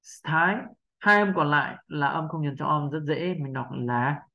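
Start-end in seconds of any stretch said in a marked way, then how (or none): 0.0-0.6 "S-, thái" with no vowel after the S; S as breath only. Shown as a demonstration. Teacher repeating for learners, vowelless S in "S-, thái". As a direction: hiss the S straight into "thái". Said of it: "chỉ có hơi thôi mà không có âm ờ".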